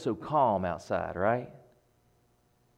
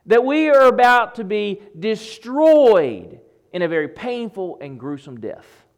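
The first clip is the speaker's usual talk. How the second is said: desperate plea; 12 semitones higher, 13 dB louder than usual. Retold or imitated. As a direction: plead like disciples caught in a deadly storm. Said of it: "the disciples were asking".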